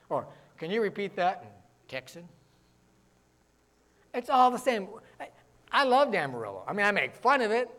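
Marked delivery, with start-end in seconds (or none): 0.6-2.3 softer, puzzled Southern request; baffled Texan listener. Retold or imitated. Texan asking the fast-talking Yankee to repeat, softly baffled. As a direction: mimic a confused Texan asking quietly. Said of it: "somebody look at me like".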